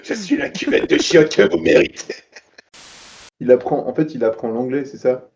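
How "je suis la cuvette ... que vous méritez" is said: brooding vigilante. Pretend. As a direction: deliver it like a dark knight. Batman-style line parody.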